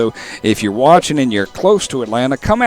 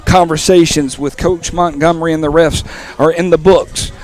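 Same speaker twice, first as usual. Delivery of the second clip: wrestling voice; 2 semitones higher than usual. Acted. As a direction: boom it out like a wrestling promo. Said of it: "I was trying to channel my wrestling voice there for a second".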